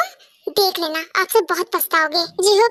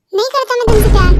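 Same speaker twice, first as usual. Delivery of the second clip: loud, fast, irritated denial; angry refusal; 6 dB louder, faster than usual. Acted. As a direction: snap it out loud and fast, fed up. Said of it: "मैं भी last time बोल रहा हूँ".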